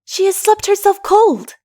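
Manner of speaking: put-on child appealing for help in dismay; boy tells Mara in dismay; appealing consternation. A narrator's reading. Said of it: "with an upcast look of appealing consternation".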